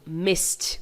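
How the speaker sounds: MISSED as "mist", one syllable. Shown as a demonstration. Teacher models the past of miss, ED as T. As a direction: end MISSED on a voiceless ST. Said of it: "miss vai ficar no passado".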